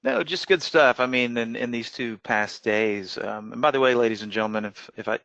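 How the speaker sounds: slightly slurred, numb mouth after dentist; marbles in mouth. Real, not acted. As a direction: talk like your mouth is still numb. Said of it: "sounds like I've got marbles in my mouth".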